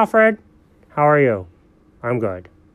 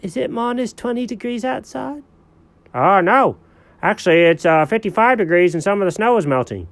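sleepy cat voice; 6 semitones higher than usual. Acted. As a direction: whine like a lazy cat caught napping. Cat character in skit.

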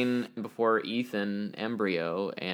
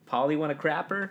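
parrot pun; 5 semitones higher than usual. Retold or imitated. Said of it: "He says".

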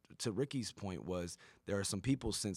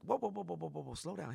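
mob boss calming; 9 semitones higher than usual. Retold or imitated. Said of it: "And he's like".

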